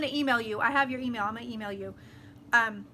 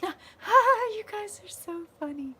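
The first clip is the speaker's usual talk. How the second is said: laughing; 9 semitones higher, 4 dB louder, much slower than usual. Real, not acted. Laughing at chat comments.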